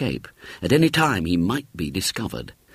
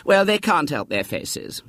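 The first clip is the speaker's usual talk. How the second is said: high, gossipy working mum explaining; a know-all mum holding forth; chatty mother voice; 10 semitones higher than usual. A narrator's reading.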